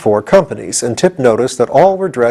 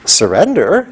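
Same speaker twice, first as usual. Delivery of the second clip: astounded; 5 semitones higher, slower than usual. Acted.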